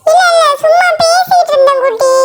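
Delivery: high, placating excuse; nervous denial. Acted. Caught picking a fight. (பயந்து மழுப்பும் குரல்)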